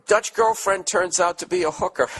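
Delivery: loud, high headline shout; shouted announcement. Real, not acted. Host shouting the next letter's topic to listeners, loud and high. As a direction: bellow it out like a headline.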